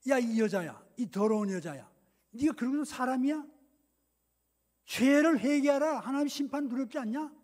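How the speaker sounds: loud, condemning rebuke; acted stern scolding. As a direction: thunder at the sinner to repent. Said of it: "막 호통을 쳐야 맞아요". (죄인을 꾸짖는 호통)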